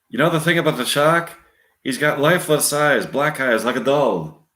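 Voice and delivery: lightly voiced Irish storyteller; measured attempt at an Irish lilt; Robert Shaw, Irish accent. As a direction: spin the shark yarn in an Irish accent. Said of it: "Robert Shaw continuing".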